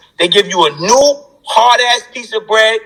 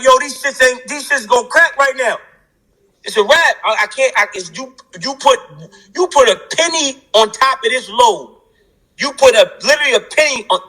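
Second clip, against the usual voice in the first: higher-pitched voice of someone about to crack; retold overwhelmed protest; 4 semitones higher than usual. Man telling God the load is too much, overwhelmed protest. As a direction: protest upward, at the limit, as a retelling.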